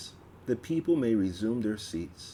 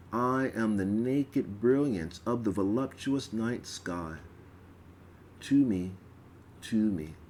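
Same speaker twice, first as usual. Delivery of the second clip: ritual recitation. Acted. Priestess reciting the goddess's call to worshippers, solemn. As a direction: intone it like a priestess at the altar.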